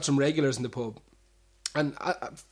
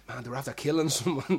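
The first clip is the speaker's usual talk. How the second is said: quoting a friend through a laugh; laughing retelling. Retold or imitated. Regular recounting his friend's shocking phone call, laughing. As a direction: let the laugh break into the line. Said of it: "And he goes".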